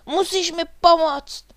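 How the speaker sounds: high, loud urgent plea; pressing, full-voiced exclamation; crying out. A narrator's reading. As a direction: cry out for help, pitched right up. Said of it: "vykřikl".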